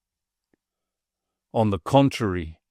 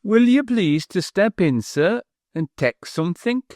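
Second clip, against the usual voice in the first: put-on higher, wheezy voice with a slightly mincing accent; a self-important old butler, pitched up and mincing; treble wheezy butler; 8 semitones higher than usual. A narrator's reading. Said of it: "in a treble and wheezy voice".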